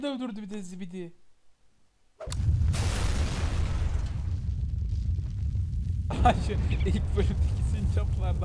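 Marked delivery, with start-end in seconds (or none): 2.2-6.4 long burst of laughter. Real, not acted. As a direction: laugh on for several seconds. Laughs at the game. (uzun bir kahkaha)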